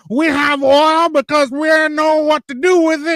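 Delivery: high, silly mocking voice; high mocking voice of a clueless Albertan. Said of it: "they're like".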